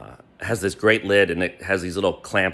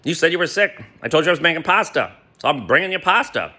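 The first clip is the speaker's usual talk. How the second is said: higher, mock-innocent retort; feigned innocence, pitched up; playing dumb; 6 semitones higher, faster than usual. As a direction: act clueless and sweetly reasonable. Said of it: "I'm playing dumb".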